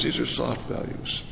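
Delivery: a whispered aside that lets it sink in; whispered echo. Shown as a demonstration. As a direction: breathe the repeat in a hush. Repeats phrase, whispered echo.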